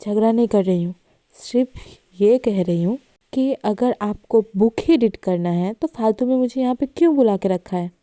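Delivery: slightly angry. Acted. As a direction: defend yourself with an edge. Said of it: "Natasha का tone थोड़ा गुस्से वाला था".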